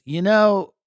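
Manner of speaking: mom voice. Retold or imitated. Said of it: "She goes".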